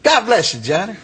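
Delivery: imitating the preacher, cheerfully high first words; Reverend Watts. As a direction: bless him in a high, friendly preacher voice. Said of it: "Reverend Watts".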